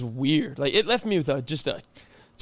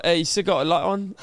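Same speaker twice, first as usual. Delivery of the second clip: lightly put-on British accent; 3 semitones lower than usual. Roommate asking at night in a mock British accent. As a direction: imitate a bad British accent. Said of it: "about having this accent".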